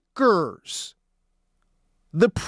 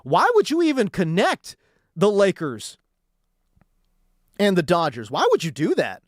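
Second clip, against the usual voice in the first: lower, mock-innocent brush-off; mocking dismissive quote; 4 semitones lower than usual. Host mocking Kasten's brush-off, lower and dismissive. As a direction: scoff it like a smug exec. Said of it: "try to gaslight people and say".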